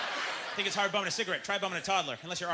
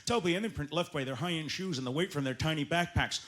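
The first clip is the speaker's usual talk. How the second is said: mock tracker. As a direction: narrate like a wilderness tracker.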